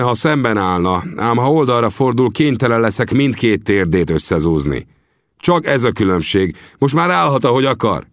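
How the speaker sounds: cool warning. Acted. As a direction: warn him coolly before the shot.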